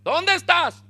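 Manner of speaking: high, loud call to someone hiding; shouting. Acted. God calls to hiding Adán in the garden, shouting. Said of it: "le grita".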